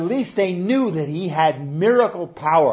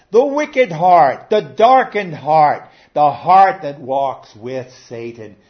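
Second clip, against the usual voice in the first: preaching; 7 dB louder, slower than usual. Acted. Preaching emphasis, slow loud.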